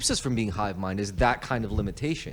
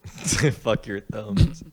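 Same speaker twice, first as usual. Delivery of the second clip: laughing; much slower than usual. Real, not acted. Laughing echo of friend's line.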